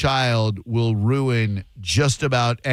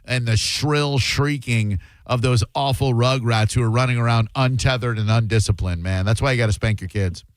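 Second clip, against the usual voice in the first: facetious. Pretend. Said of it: "That was facetious".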